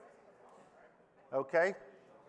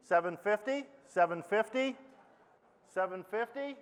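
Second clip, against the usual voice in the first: auctioneer; 2 semitones higher than usual. Acted. Auctioneer bid calling.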